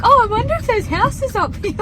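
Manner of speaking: high, singsong mock tone; airy mock of his remark; mocking partner's voice. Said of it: "and you're like".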